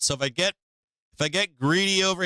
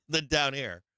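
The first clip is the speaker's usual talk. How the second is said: laughing; 3 dB quieter than usual. Real, not acted. Laughing through the line.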